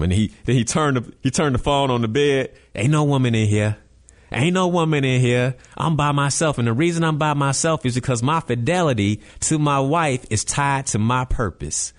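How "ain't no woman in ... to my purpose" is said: lightly imitated Southern accent; Tony Gaskins. Faithful husband showing his empty hotel room, light Southern accent. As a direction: put on a slight Southern accent. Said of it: "his Southern accent".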